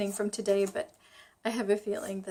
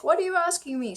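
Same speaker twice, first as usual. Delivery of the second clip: guard; 8 semitones higher, 4 dB louder than usual. Retold or imitated. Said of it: "she was like".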